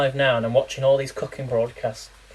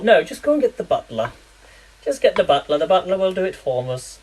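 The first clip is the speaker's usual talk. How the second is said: lightly posh, higher royal dismissal; Queen impression; 4 semitones higher than usual. Imagining the Queen sending the butler, a light posh voice. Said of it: "what the Queen would call it".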